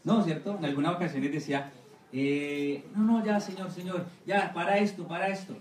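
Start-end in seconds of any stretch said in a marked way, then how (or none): 2.9-5.6 a tyrant cracking, begging the Lord to stop; pleading Pharaoh. Acted. Pharaoh begging God to stop plagues.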